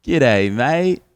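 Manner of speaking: awkward greeting. Retold or imitated. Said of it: "So I was just like".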